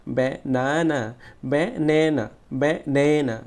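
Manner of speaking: ব্যানানা with a strong long "na" in the middle; stressed middle syllable. Shown as a demonstration. Teacher drilling students, forceful middle syllable in ব্যানানা. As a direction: push and stretch the second syllable of ব্যানানা. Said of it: "জোরে উচ্চারণ করতে হবে".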